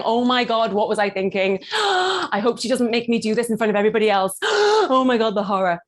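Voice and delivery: mock panic with big gasps; freaking out. Coach acting a performer off stage, mock freaking out. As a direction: gasp in theatrical horror. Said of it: "This is you freaking out and going".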